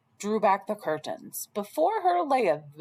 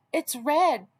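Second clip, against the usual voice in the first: put-on wolf faking a higher, sweet girl's voice; 7 semitones higher than usual. Wolf at Grandma's door faking Red's high, sweet voice. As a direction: pretend to be the little girl, sugary. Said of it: "called Wolf in a high, sweet voice".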